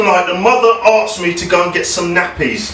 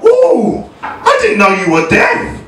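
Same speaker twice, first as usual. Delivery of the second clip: mock surprise; 3 semitones higher, slower than usual. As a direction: imitate a gushing fan's fake surprise. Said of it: "And they go".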